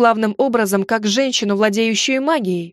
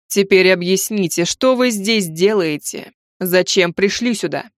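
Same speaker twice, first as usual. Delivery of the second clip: stern tsar voice; 3 semitones lower than usual. Acted. Tsar demands explanation.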